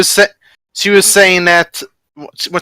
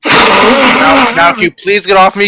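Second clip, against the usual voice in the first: higher, slightly louder in-character complaint; mildly exasperated demand to get off; exasperated plea; 4 semitones higher, 4 dB louder than usual. Acted. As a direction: act put out at being pinned. Pinned character demands release.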